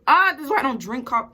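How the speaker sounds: loud, high, over-caffeinated wail; jittery outburst. Real, not acted. Vlogger, jittery after coffee, bursts out loud. Same clip replayed.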